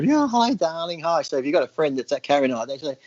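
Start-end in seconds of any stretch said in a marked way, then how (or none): 0.0-1.2 high camp greeting on the first "hi"; mock flamboyant voice; camp mimicry. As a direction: swish it like a camp friend. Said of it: "it's those ones that are".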